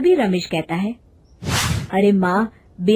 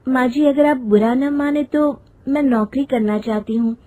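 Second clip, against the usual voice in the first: polite request in a higher voice; respectful daughter-in-law; 4 semitones higher than usual. Acted. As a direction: ask your mother-in-law cautiously. Voices daughter-in-law asking permission. (विनम्र बहू की आवाज़)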